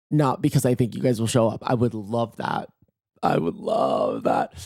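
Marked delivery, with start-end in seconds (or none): 3.2-4.5 very low, drawn-out voice; mock sultry relish. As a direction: drop right down and savour it slowly. Repeats it in exaggerated low voice.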